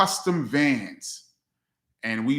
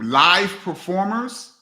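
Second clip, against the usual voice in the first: musing; 6 semitones higher, 5 dB louder, slower than usual. Real, not acted. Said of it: "reads question, considers it".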